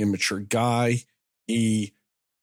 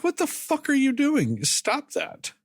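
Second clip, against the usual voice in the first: high-pitched retold outcry; alarmed objection; 12 semitones higher than usual. Everybody objecting to him tying her up, high-pitched protest. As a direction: imitate a crowd objecting, pitched well up.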